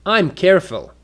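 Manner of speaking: "I'm careful" as a simple falling statement; statement intonation. Shown as a demonstration. Teacher demonstrating a statement, falling tune on "I'm careful". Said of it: "For a statement".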